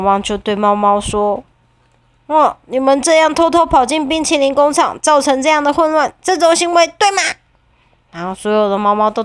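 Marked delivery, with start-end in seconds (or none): 2.3-7.2 scolding dog. Acted. 汪汪训斥野猫.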